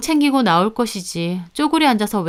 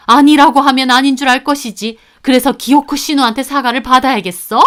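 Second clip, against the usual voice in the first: scolding; 4 semitones higher, 5 dB louder than usual. Acted. Mother-in-law scolding daughter-in-law.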